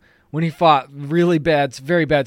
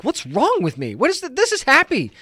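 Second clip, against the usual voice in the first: exasperated at herself; 7 semitones higher than usual. Retold or imitated. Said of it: "and I'm like".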